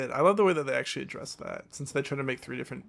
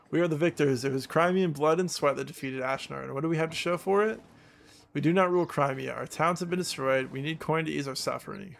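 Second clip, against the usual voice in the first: rebel rally speech. Acted.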